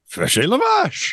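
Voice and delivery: high, drawn-out French shout; hammed-up French battle call; mock French accent. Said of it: "sounds like a thing from Monty Python's Holy Grail".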